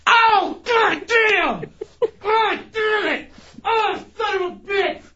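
sudden pained cursing; pained yelling. Real, not acted. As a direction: yell out from the sting. Waxing strip ripped off.

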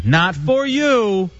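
put-on drawn-out parental no to a toddler; talking to a baby. Host claims the beer as Daddy's, baby-talk scolding. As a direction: gently deny a baby, slowly. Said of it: "Like you're a baby".

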